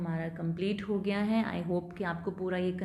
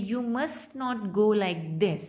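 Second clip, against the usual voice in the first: slow, falling then rising at the end; warn, letting the tune dip and lift; warning fall-rise; much slower than usual. Shown as a demonstration. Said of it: "fall हो रही है और rise हो रही है". (चेतावनी वाली fall-rise tone)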